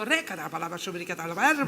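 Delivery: rapid babbled mock tongues; imitated tongues. Woman suddenly praying beside her, imitated tongues. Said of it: "a mulher começou".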